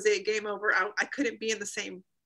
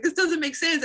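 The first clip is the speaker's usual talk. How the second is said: arguing with God; 7 semitones higher, 4 dB louder than usual. Retold or imitated.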